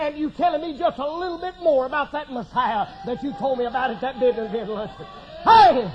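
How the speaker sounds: loud, high, excited preaching; preacher shouting with joy about the call. Real, not acted. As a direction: burst out with joy at the news. Excited retelling of the phone call.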